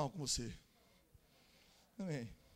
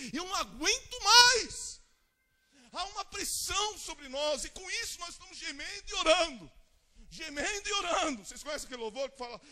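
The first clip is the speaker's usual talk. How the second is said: preaching at full force; 9 semitones higher, 14 dB louder than usual. Acted. Pastor rousing the church toward revival, roaring louder and louder. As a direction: build the congregation to revival fervor.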